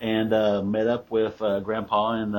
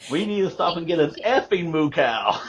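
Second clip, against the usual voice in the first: high, loud fed-up outburst; cursing daughter; 8 semitones higher, 5 dB louder than usual. Retold or imitated. Daughter swearing at her teasing dad, high and loud. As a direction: blurt it out in mock exasperation. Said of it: "unsavory language with that".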